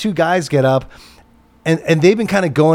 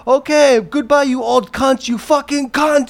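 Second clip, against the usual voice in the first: Sammy cursing; 12 semitones higher than usual. Retold or imitated. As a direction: imitate an owner throwing out an old lady. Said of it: "And he's like".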